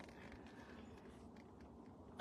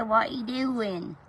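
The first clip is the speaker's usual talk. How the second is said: put-on baby voice; slower than usual. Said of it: "baby voice to their pets".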